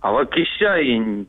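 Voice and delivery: backwards speech. Shown as a demonstration. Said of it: "скажи вот наоборот".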